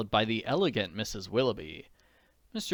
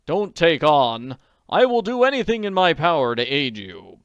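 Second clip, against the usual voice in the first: calm her down gently; kindly; 5 semitones higher, 10 dB louder than usual. A narrator's reading. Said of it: "he said kindly".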